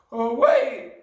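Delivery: high, loud panicked cry; flustered Wilfred. A narrator's reading. Wilfred pleading with the headmistress, high and flustered. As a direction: beg for time in a boyish voice. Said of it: "he cried".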